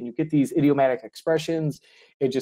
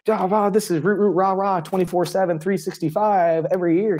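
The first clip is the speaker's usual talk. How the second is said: higher, hammed-up rah-rah pep; mock cheerleader cheer; 4 semitones higher than usual. Teacher mocking forced school positivity, hammed-up cheer. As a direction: parody relentless fake cheer.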